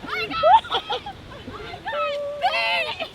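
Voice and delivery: mock excitement. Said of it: "It's a joke".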